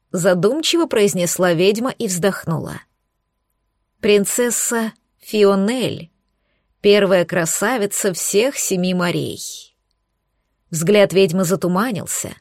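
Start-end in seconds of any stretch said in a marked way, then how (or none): 4.0-9.7 slow, soft and tender; soft murmuring. Acted. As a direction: murmur it fondly, slowly. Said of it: "голос журчал совсем тихо".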